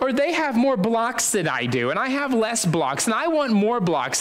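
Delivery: high mock child's complaint; childish grumbling. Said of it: "I'm gonna grumble and complain".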